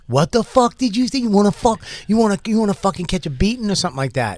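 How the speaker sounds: mock threat. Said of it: "he turned around immediately".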